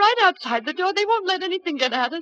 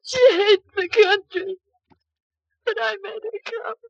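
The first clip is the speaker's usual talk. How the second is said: tearful; 5 semitones higher, 5 dB louder, much slower than usual. Acted. Grieving over dead Edna.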